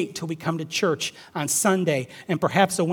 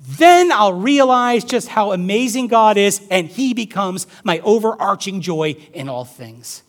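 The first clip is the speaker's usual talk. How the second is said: loud, lifted preaching voice; impassioned preaching; 3 semitones higher, 9 dB louder than usual. Acted. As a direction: preach it out with conviction, easing at the end. Preaching at full force.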